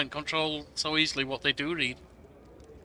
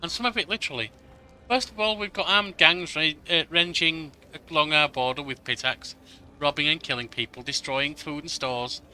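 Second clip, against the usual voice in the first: put-on urgent young advisor; 3 dB louder than usual. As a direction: read it as a worried young advisor bringing bad news. Reads advisor Lindsay's dialogue aloud.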